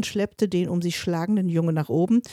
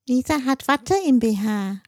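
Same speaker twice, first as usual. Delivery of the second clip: put-on toddler blurting; 5 semitones higher, 4 dB louder than usual. A narrator's reading. Toddler repeats his announcement.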